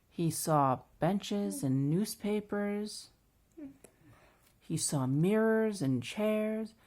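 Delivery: measured, lively picture-book narration; children's story reading. A narrator's reading. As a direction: read it slowly to a small child.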